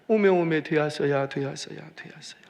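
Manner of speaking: Jeolla dialect, lightly imitated, fading away; retold tearful relief in Jeolla dialect; mock-weeping Jeolla aunt, trailing off. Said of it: "막 펑펑 우는 거예요".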